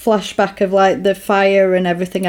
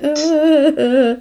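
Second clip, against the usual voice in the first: high, wordless mock whimper; mock moaning; 6 semitones higher, slower than usual. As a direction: imitate her helpless little moans. Imitating character's reaction during sex scene.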